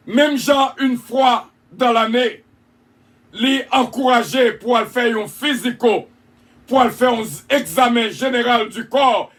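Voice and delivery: preaching. Acted. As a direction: urge the flock with force. Preaching exhortation.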